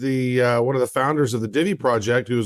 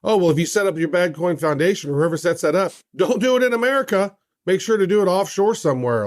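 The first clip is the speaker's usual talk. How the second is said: quoted official's advice; 5 semitones higher than usual. Retold or imitated. Retelling a director's spoken warning.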